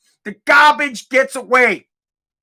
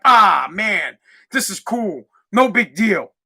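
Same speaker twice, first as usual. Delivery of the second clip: mock indifference; 4 semitones lower, slower than usual. Mimics indifferent people.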